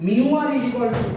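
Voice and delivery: mu r is equal to, drawn out word by word; slow dictation. Shown as a demonstration. Teacher dictating the formula to students, slowly. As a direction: spell out "mu r is equal to" slowly so they can write. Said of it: "ছোট্ট করে লিখে দিচ্ছি দেখো".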